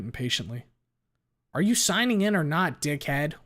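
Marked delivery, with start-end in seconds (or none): 1.5-3.3 loud impatient shout; angry shout. A narrator's reading. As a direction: bark it at him from the queue. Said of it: "one of them shouts".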